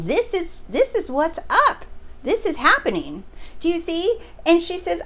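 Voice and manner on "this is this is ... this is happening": mildly emphatic retold declaration; declaring. Subscriber declaring rather than asking, lightly imitated declaration. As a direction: lay it down as fact, pitched up. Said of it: "she's declaring".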